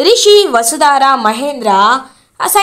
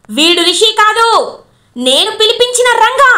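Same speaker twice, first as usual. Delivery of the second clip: higher, fast, triumphant villain rant; gloating villain confession; 6 semitones higher than usual. Acted. Brother-in-law Shailendra boasts to family he killed her, gloating. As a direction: spit out the confession, pitched up and gloating.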